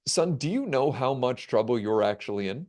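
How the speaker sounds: low, calm interrogator; calm authority. Retold or imitated. Airport interrogator to the traveler in trouble, calm and low. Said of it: "the guy looks at me calmly".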